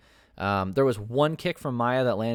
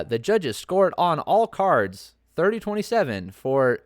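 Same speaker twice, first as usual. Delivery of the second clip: Bruce Buffer; 6 semitones higher, 4 dB louder than usual. Retold or imitated. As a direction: stretch out the scorecards like a fight announcer. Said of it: "this time he was like".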